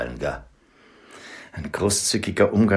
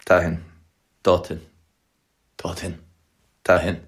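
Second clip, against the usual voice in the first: clipped frantic bursts in all directions; frantic panic. Acted. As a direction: toss the words wildly. Horses bolting in panic.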